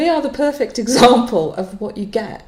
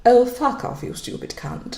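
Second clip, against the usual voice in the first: mock posh English accent, trailing into a laugh; a plummy posh English accent, half laughing; 10 dB quieter than usual. Shy wife asked to swear on the podcast, mock posh English accent. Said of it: "In a posh voice?".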